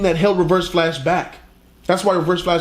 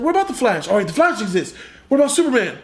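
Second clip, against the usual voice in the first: mock high coworker; 4 semitones higher, faster than usual. Coworker answering Barry.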